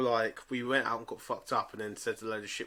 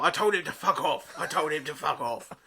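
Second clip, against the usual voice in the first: put-on drunk slur; 3 semitones higher, 5 dB louder than usual. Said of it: "you were undecipherable".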